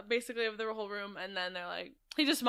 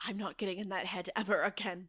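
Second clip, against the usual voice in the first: softer, imitated Scottish accent; 3 semitones lower, 8 dB quieter than usual. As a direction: retell it in a put-on Scottish accent. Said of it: "I can't stop doing this Scottish".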